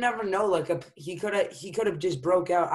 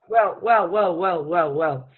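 taunting; 5 dB louder, slower than usual. Acted. Mock taunting interruption.

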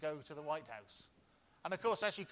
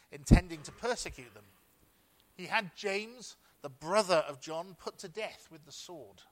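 louder, declaiming the Bible passage; scripture reading; 3 semitones higher, 11 dB louder than usual. Acted. Pastor reading Acts to the church, in a louder declaiming voice. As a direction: read it out to the congregation with weight.

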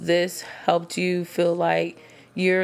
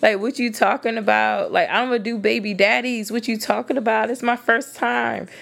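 higher, incredulous comeback to a hypocrite; exasperated retort; 4 semitones higher than usual. Retold or imitated. Retelling to ladies how she answered a guy, incredulous and higher. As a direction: throw the question back at him in disbelief. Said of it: "yeah, I'm like".

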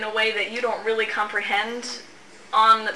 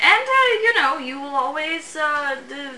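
a lightly higher, wheedling imp making an offer; sly imp voice; 4 semitones higher than usual. Acted. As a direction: coax them like a tricky little imp.

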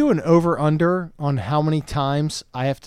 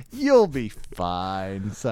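mock-calm reassurance; 6 semitones lower, much slower than usual. Parent reassures a nervous child.

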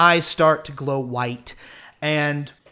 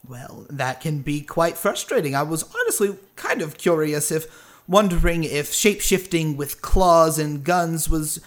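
lightly voiced courteous eccentric; genial stranger, curious; 3 dB louder than usual. Stranger wondering about shape-shifting locals, curious and lightly theatrical. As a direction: muse aloud with light, polite curiosity.

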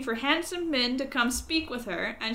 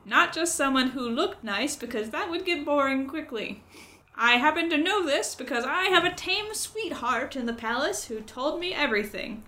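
higher, louder croaky crow gossip; 4 semitones higher, 4 dB louder than usual. Acted. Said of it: "try to speak in a croaky voice".

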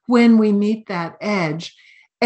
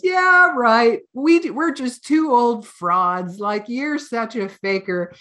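mocking scoff; 3 semitones higher, slower than usual. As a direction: needle him as an old fraud. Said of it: "Zapatro Rinpoche says".

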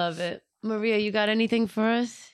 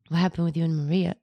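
fast retold question; 5 semitones lower, much faster than usual. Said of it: "messaging me like".

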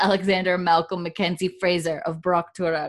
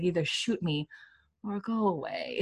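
quieter, weary plea to be left alone; pleading; 7 dB quieter than usual. Shown as a demonstration. Dying prisoner pleading with the officer, softly weary. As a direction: beg them softly to end it. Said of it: "He says it like the go away is, like, pleading".

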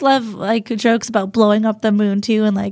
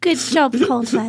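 put-on British child audience; slower than usual. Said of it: "they would all just be like".

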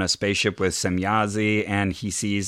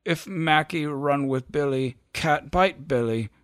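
higher, slow and weak, a dying dog talking; small broken dog voice, slow and higher; dying dog Mackie; 5 semitones higher than usual. Acted. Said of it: "This is how Mackie talks".

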